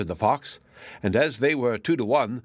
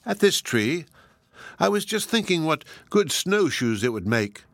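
absent voice; 6 semitones higher than usual. Acted. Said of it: "answered the fox in an absent voice".

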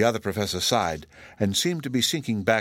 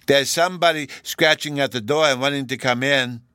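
put-on louder, higher little-boy voice; lifted, forceful child character voice; small boy Bruno; 6 semitones higher, 6 dB louder than usual. A narrator's reading. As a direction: announce it like an excited small child. Bruno calls out news.

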